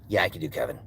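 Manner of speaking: Kevin voice. Acted. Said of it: "on the lower end".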